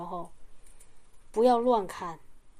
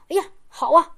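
higher and louder burst of satisfaction; pleased exclamation; 5 semitones higher, 8 dB louder than usual. Retold or imitated. Pastor glad the sister no longer speaks in tongues, loud pleased cry. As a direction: exclaim it like good news.

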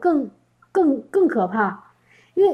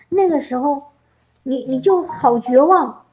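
usual speaking voice

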